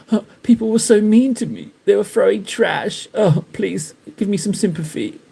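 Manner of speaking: a hint of fake self-pity, whiny and pleading; hammed-up victim. Streamer mocks Dark pleading for sympathy after the trash, hammed-up whine. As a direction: play the wounded victim, lightly hammed. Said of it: "and he hams it up".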